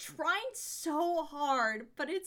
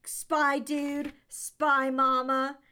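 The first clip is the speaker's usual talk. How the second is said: quoted catchphrase; 4 dB louder, much slower than usual. Retold or imitated. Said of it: "it was like".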